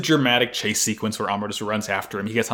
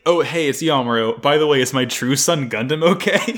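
deadpan father voice; 4 semitones higher, 5 dB louder than usual. Retold or imitated. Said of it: "He's like".

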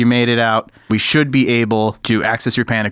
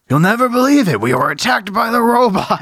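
high excited warning, much higher; panicked NPC; 10 semitones higher than usual. Acted. Game master voicing a frightened scientist. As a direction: blurt it out in alarm. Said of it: "and he says".

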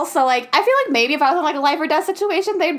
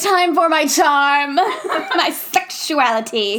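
a slow, hammed-up seductive drawl; mock seductive; slower than usual. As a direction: vamp it up slowly. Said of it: "She's like".

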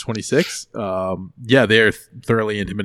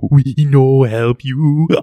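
loud, slow, broken ape talk; loud chimp voice; 3 semitones higher, 10 dB louder, much slower than usual. Acted. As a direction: bellow it like an angry chimp.

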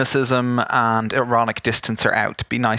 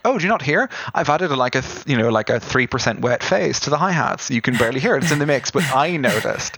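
mock indignant; 2 semitones higher than usual. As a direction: act offended that nobody hears it. Imitating herself as a fussy producer.

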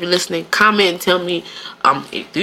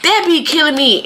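higher, Southern-tinged talk; Southern-sounding; 5 semitones higher than usual. Real, not acted. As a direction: let a Southern US lilt slip in. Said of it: "You sound like one of us".

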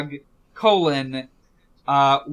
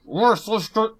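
robot voice; 6 semitones higher, 4 dB louder than usual. Retold or imitated. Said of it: "more yelly".

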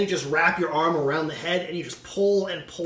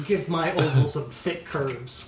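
talking through laughter; laughing; 5 semitones higher, 6 dB louder, slower than usual. Real, not acted. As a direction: laugh while you speak. Laughing through stream banter.

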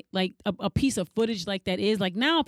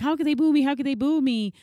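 mock hurt singer; 5 semitones higher, faster than usual. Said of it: "she was like".

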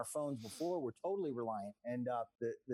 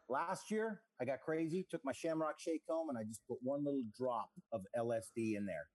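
normal talking voice

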